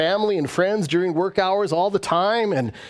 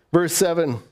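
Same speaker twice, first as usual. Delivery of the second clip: ordinary talk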